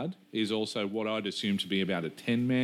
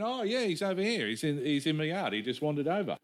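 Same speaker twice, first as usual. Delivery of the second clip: neighbour's reply; 6 semitones higher than usual. Retold or imitated. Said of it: "And he went".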